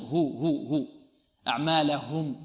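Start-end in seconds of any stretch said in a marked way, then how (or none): 1.5-2.4 أعمالهم with a firm push on the ha; press the ha. Shown as a demonstration. Teacher modelling a firm ha for students. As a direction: lean on the ha of أعمالهم. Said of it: "لابد أن تضغط على الهاء".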